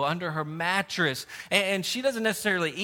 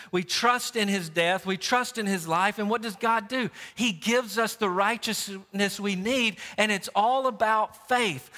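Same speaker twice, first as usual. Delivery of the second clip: earnest, driving sermon delivery, slightly raised; emphatic preaching; 3 semitones higher than usual. Real, not acted. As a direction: preach it in parallel, building phrases. Preaches with rising intensity.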